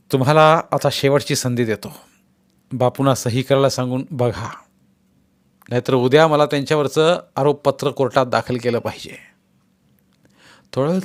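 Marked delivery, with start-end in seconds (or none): 0.1-9.2 a hint of a firm officer laying down terms; lightly voiced official giving an ultimatum; stern official. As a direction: press them with a final warning. Mulani threatens the guests.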